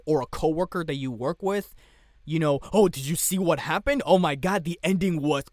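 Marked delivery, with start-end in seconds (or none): 2.7-5.4 spoiler troll. Retold or imitated. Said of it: "That's my impression of a troll that wants to spoil everything".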